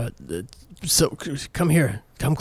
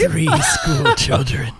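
excited; 4 dB louder than usual. Acted. Ghost excitedly names price.

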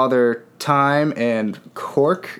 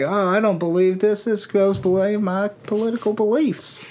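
lightly voiced huffy Rudolph; 8 semitones higher than usual. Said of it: "Rudolph was like".

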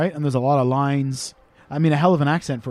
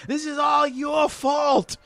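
mock yell; 9 semitones higher, 3 dB quieter, much slower than usual. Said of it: "he's yelling at his little sister".

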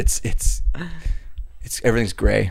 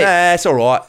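put-on higher, playful British accent; mock British accent; 4 semitones higher than usual. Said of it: "that's the best you've ever done".

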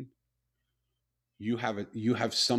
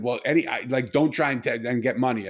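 suspicious retold; 8 dB louder than usual. Homeless man still suspicious.

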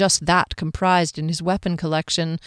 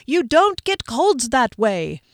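higher, drawn-out mock yell; 5 semitones higher, slower than usual. Viewer correcting the TV about colds, exasperated mock yell. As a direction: scold the screen slowly, pitched up. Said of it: "Matt and I yell at the T V".

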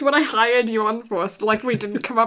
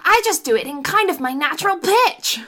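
higher, animated voice; up a few octaves; 7 semitones higher, faster than usual. Shown as a demonstration. Co-host echoing the host's explanation, pitched up high. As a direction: say it pitched well up and quicker. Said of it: "you just take it up a few octaves".

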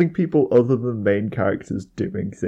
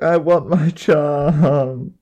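slow, drawn-out cartoon cat whine; Meowth; 5 semitones higher, 6 dB louder, much slower than usual. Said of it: "Meowth's just like".

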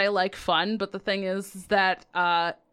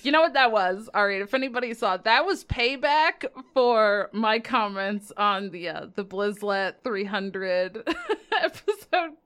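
after laughing hard. Real, not acted. Laughing while explaining.

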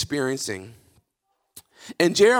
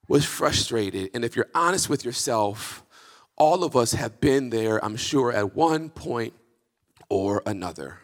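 subdued reflection; 7 semitones lower, 4 dB quieter than usual. Real, not acted. Lowered reflective preaching.

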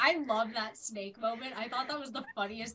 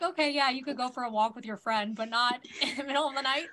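louder mock parent laying down the rules; half-laughing parent voice, louder; mock strict parent; 6 dB louder, faster than usual. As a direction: play the sensible parent saying no, getting louder. Parents refusing a night walk.

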